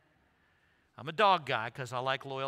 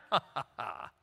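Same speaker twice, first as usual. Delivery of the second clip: short run of ha-has; mock laugh; 4 semitones lower than usual. Real, not acted. Preacher jokes about being called a cat, mock laughing.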